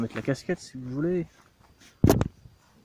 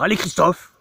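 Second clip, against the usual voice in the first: loud cheering shout, higher; 6 semitones higher, 7 dB louder than usual. Pretend. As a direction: cheer him on from the roadside. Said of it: "On va lui dire".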